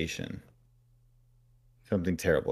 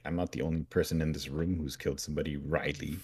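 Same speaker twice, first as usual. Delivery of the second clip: smug burn; 3 semitones lower, 8 dB quieter, faster than usual. Retold or imitated. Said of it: "he hits him with a real burn".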